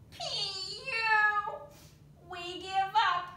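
loud disgusted yell. A narrator's reading. Spiders yelling as they give up, loud. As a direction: yell in defeat at the stink. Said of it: "the spiders all yelled".

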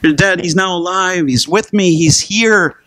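father's voice jumping high with joy; a father beside himself that his son is back; high, delighted cry of a father; overjoyed father. Retold or imitated. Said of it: "and the father's like".

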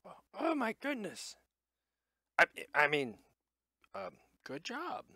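high, flustered little gnome. Acted. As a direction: stammer like a nervous gnome. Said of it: "the gnome's like".

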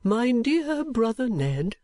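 name her slowly and carefully; kindly old gentleman, deliberate. Acted. Old gentleman telling Nicholas who she is, deliberate.

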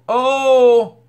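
loud, high gasp of delight; surprised oh. Real, not acted. Reacts to the first lady quote.

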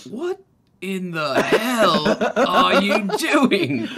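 slow, loud, laughing what in the hell; a big barbarian baffled, laughing through it; incredulous barbarian. Acted. Barbarian yelling at his friend, slow laughing disbelief. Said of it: "Hottie will, uh, go".

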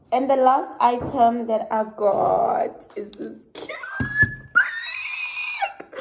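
excitement rising into a high squeal; dramatic reveal. Pretend. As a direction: build loudly to an overjoyed squeal. Dramatic reveal of favourite bag.

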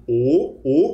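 "O" with rounded, puckered lips; pouted O. Shown as a demonstration. Teacher showing the lip shape to students, puckered O. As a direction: pout as for a kiss on "O". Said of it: "um biquinho de O".

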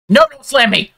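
high, loud panicked yell. Real, not acted. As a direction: yelp it in panic. Boss about to hit.

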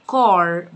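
CAR with a heavy, backed "aw"-like vowel; dark emphatic A. Shown as a demonstration. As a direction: darken the A in car before the R. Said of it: "بص عمالة تتنطق مفخمة". (نطق car بألف مفخمة)

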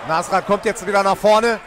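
loud, rising play-by-play; excited commentary. Real, not acted. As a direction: call the attack loudly. Live commentary, fighter attacks.

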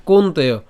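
"কোন্তেয়" as a single word; said unbroken. Shown as a demonstration. Teacher showing the unsplit form, "কোন্তেয়" in one piece. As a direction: keep "কোন্তেয়" whole, no break. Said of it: "এই জায়গাটা না ভাঙলে হবে".

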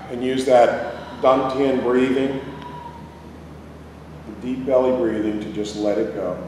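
calm, unhurried meditation guide; guided meditation. Real, not acted. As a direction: lead them inward with long pauses. Leads a breathing meditation.

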